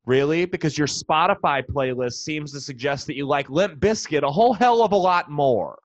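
mock-incredulous, rising questions; sarcastic retort. Comic to a touchy fan of a band, sarcastic and incredulous. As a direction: needle the band's fan about his playlist. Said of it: "I'm like".

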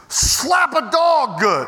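slow, drawn-out relish over the cookies; savoring relish. Real, not acted. Preacher relishing his cookies, slowly savoring. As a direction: linger on each word like a treat.

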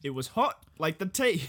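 English attempt sliding into Australian; attempted English accent. Shown as a demonstration. Joining friend's English bit, wobbly English accent. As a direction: try English, landing near Australian. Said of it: "I still sound Australian".

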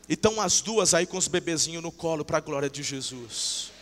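ordinary talk, nothing marked

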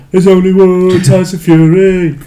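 put-on Wilder accent. Imitating Wilder hyping Fury, slow American accent. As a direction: drag it out like Wilder. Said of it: "that was my best Wilder accent".

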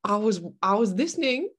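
Australian attempt drifting South African; botched Australian accent. Shown as a demonstration. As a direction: try Australian and miss, landing near South African. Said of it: "has that gone South African a little bit".

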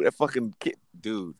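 ordinary delivery

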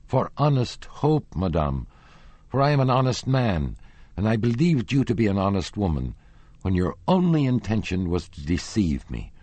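put-on a hurt young man lashing out at his love; childish hatred. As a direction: spit it out like a wounded boy. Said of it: "in accents of childish hatred".

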